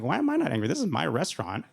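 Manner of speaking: incredulous self-question; sudden realization. Retold or imitated. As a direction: hit the question with disbelief. Realization, rising pitch.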